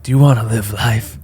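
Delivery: lightly put-on voice mimicking the line; mock quote of a rapper. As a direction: imitate his big question for laughs. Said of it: "That shit's fucking funny".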